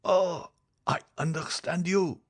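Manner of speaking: high, slow, anguished moan; despairing patient's high-pitched lament; unhappy dying man. Acted. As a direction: drag the words out in suffering. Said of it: "said the unhappy man".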